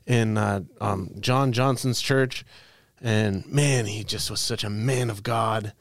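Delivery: mock-sincere church testimony with a veiled dig; passive-aggressive compliment. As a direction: make criticism sound like reverent praise. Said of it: "passive aggressive about it".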